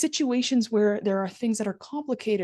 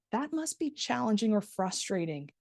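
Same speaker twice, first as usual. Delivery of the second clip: sympathize sincerely with a patient's difficulty; genuine empathy. Shown as a demonstration. Instructor modelling empathy for exam candidates, gentle shift in tone. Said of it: "tone shift a little bit there".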